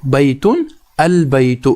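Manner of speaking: calm slow echo for students; slow repeat. Shown as a demonstration. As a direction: say بیتن البیت again slowly, settling down. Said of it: "یہاں پر آپ پہلی مثال دیکھ لیجئے".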